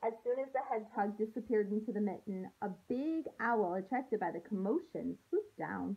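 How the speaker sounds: storybook read-aloud voice for a class; gentle story narration to kids; reading to children. A narrator's reading. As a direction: read it like a teacher sharing a picture book. Teacher reads picture book aloud.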